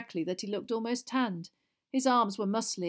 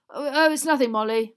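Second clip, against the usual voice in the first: higher, hesitant, flustered brush-off; flustered mumble; 6 semitones higher, 10 dB louder than usual. A narrator's reading. Husband placates his suspicious wife, flustered. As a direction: stumble nervously through the excuse. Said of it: "mumbled Mister Weasley".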